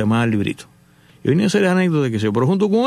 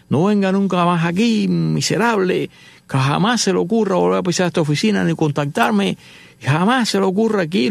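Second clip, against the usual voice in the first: angry shout; 4 semitones higher than usual. Retold or imitated. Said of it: "Lincoln detrás diciéndole horrores".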